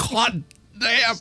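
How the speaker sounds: pained cry from brain freeze; high, pained exclamation with laughter. Real, not acted. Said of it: "brain freeze".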